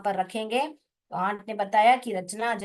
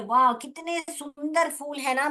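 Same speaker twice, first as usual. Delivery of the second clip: excited; 4 semitones higher than usual. Shown as a demonstration. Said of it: "ऐसे देखिए".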